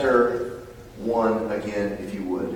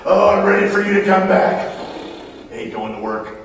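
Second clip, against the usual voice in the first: mock eager; 8 semitones higher, 7 dB louder than usual. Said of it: "You see the difference?".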